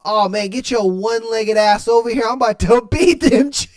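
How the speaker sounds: a hint of a cocky boyfriend breaking into laughs; mock boyfriend line, half laughing; boyfriend quote. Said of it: "and then he was like".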